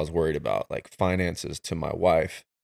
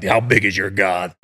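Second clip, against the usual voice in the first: counselor's voice; 6 dB louder than usual. Retold or imitated. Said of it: "he talks like".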